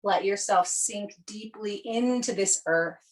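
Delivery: measured yoga nidra guiding voice, easing down at phrase ends; guided meditation. Acted. Yoga teacher settling students for Yoga Nidra, guided meditation. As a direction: lead them gently into settling on the earth.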